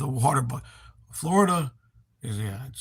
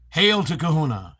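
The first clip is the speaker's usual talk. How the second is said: mock hail; 3 semitones higher, 4 dB louder, slower than usual. Hailing the chatter.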